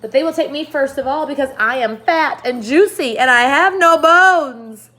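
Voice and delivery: high, loud wail. Acted. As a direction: wail it out in fear. Earthworm continues wailing.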